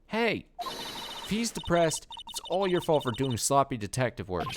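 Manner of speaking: Detective Gumshoe voice. Acted. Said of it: "my Detective Gumshoe voice".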